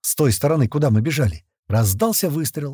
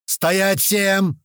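заорал; 7 semitones higher than usual. Acted. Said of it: "уже заорал Туча".

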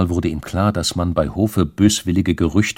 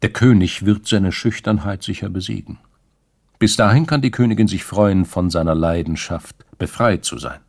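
dry; 2 semitones higher, 5 dB louder than usual. Acted. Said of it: "mit der außerordentlichen Trockenheit".

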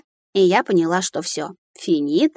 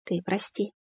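softer, slow, with a tired sigh; sighing apology; 6 dB quieter, slower than usual. A narrator's reading. Heroine apologizing to Ril, sighing and worn out. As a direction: let the breath out as you apologize. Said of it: "я вздохнула".

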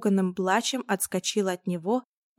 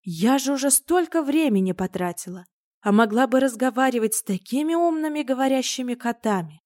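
stern scolding; 2 semitones higher, 5 dB louder than usual. Acted. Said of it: "грозно обернулась".

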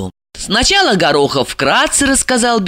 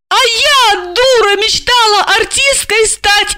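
wailing exclamation. A narrator's reading. Foolish wife to her handler, high tearful wail. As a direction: wail it wringing her hands. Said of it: "заламывая руки, воскликнула".

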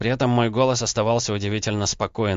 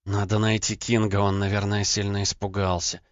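ordinary delivery, nothing marked

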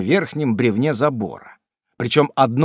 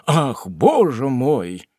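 slow, drawn-out dismayed cry; exclaiming; much slower than usual. Acted. Pickwick caught with the lantern, slow dismayed exclamation. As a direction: gasp it out in dismay. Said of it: "воскликнул мистер Пиквик".

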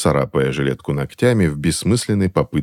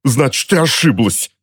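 spiteful snap; 8 semitones higher than usual. A narrator's reading. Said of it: "злобно выпучив глаза, прошипел".

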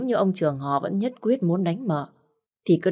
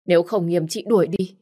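shrill pleading; 5 semitones higher than usual. Acted. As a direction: beg him while accusing her rival. Nhã Thi pleading after crying. (van nài gay gắt, giọng cao và to)

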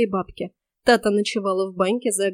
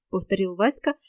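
ordinary delivery

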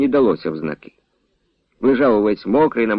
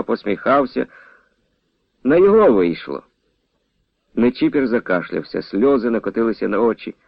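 usual speaking voice

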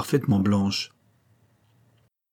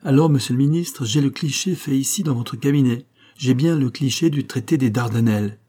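exclaiming; 4 semitones higher than usual. Acted. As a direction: burst out with the news. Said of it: "s'écria". (s'écrie avec excitation)

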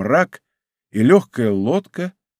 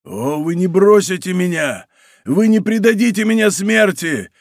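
higher and louder with each plea, building to a cry; desperate pleading cry; 7 semitones higher, 4 dB louder than usual. A narrator's reading. Mordaunt pleads with the musketeers from the sea, rising desperate cry. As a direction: beg for your life, rising to a scream. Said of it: "кричал Мордаунд".

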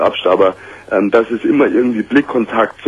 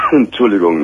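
swallowed wrong way. Real, not acted. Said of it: "ich hab mich verschluckt".

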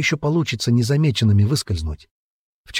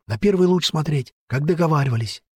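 put-on girl's voice; 5 semitones higher than usual. A narrator's reading. Girl's voice, Vileya.

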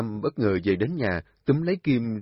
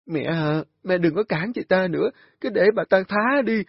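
high, rising, loud spite; bitter accusation; 10 semitones higher, 7 dB louder than usual. A narrator's reading. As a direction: expose her scornfully. Nga tố cáo Kim. (tố cáo cay cú)

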